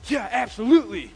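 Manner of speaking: loud mock Scandinavian agreement; big, hammed-up Norwegian-Swedish yes; Norwegian-Swedish enthusiasm. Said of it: "You'd get so Norwegian Swedish".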